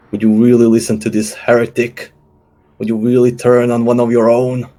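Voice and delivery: a touch of outraged appeal; mild acted yell. Player's character yells back at the drummer, a mild declaimed yell. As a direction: call out to the crowd, half-shouted. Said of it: "yell out".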